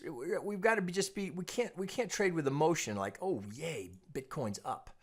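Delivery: normal talking voice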